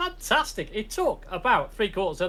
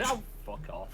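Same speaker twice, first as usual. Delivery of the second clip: laughing dismissal; 9 semitones lower, 9 dB quieter than usual. Retold or imitated. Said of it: "And I was like".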